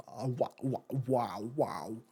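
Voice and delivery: a put-on older English gent saying wow; Michael Caine impression. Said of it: "That's what Michael Caine would say".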